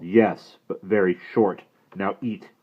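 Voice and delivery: put-on loud, stern brave scolding the boy; a proud warrior unimpressed by fuss; disapproving Indian brave.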